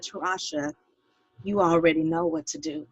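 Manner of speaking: hushed, gentle voice of God; quietly imitating a soft divine reassurance; soft, reassuring voice. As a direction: say it softly to reassure her, retelling what was heard. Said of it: "he said in a soft, soft voice, reassuring voice".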